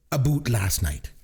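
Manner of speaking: slow, exaggerated Canadian "about" as "a boot"; mock Canadian accent. Announcing a movie title as a joke, mock Canadian accent. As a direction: ham up the Canadian vowel, "a boot". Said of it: "it's all about my Canadian accent".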